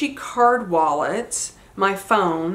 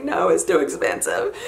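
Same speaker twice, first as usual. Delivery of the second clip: mock sobbing, half laughing; retold boohooing. Boohooing daughter turning down dad's offer, in a mock sob. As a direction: imitate yourself blubbering in protest. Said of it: "I'm just boohooing".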